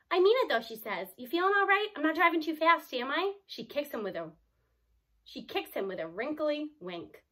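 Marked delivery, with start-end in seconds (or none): 0.1-0.6 lightly voiced grandma, higher and louder; a hint of an insistent old lady; grandma insisting to her grandson. A narrator's reading. 1.2-3.4 lightly voiced fussing grandma, higher pitched; a touch of a concerned old lady; grandma asking her grandson about her driving. A narrator's reading.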